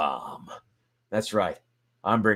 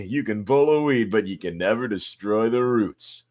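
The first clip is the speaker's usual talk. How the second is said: dramatic rival narrator, louder; character narrator voice; 3 semitones higher, 5 dB louder than usual. Acted. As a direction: tell it as a jealous rival. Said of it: "so I can do different voices".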